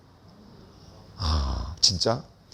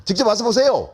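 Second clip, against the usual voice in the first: raised, higher-pitched curt order; louder, insistent demand; irate police officer; 6 semitones higher, 4 dB louder than usual. Retold or imitated. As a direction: imitate an officer losing patience on the phone. Police officer barking before hanging up.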